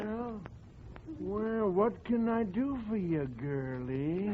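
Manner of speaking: lightly voiced creaky old fellow; a hint of an elderly codger at the door; old man voice. Old man greets a saleswoman at his door, lightly aged.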